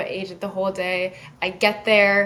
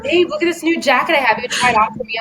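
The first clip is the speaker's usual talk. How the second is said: higher, quick show-off delivery; excited boyfriend; 3 semitones higher, 4 dB louder, faster than usual. Retold or imitated. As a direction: imitate a boyfriend eager to show off. Boyfriend showing off new jacket.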